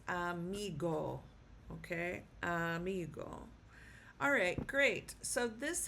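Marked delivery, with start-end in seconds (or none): 0.1-1.2 amigo with the stress on MI; Spanish pronunciation. Shown as a demonstration. Teacher showing how amigo is pronounced, stress on the middle syllable. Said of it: "so it is pronounced". 2.4-3.5 Amigo with the stress on MI; Spanish pronunciation. Shown as a demonstration. Teacher repeating the pronounced word, Amigo stressed on MI. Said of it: "so it is pronounced".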